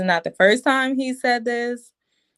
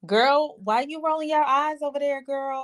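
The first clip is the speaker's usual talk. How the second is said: higher, sassy call-out; mock confrontation; 6 semitones higher than usual. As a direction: needle her across the room. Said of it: "She was like".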